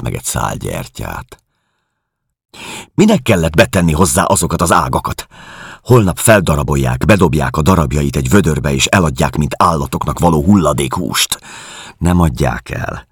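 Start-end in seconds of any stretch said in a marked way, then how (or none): 2.9-11.4 raised, agitated protest; a touch of rising panic in her voice; distressed woman. Acted. Narrator voices distressed Helen. (zaklatottan tiltakozó nő)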